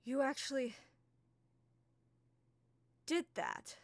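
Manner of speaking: stunned she can't believe it; Key gaping at the dragon's head; Key, astonished. Acted. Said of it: "Key just steps up and goes".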